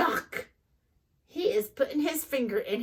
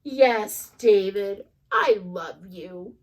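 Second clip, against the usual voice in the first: lower, slow loving reassurance; tender mom; 4 semitones lower, slower than usual. Acted. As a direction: hug him with the words. Mom hugging in story.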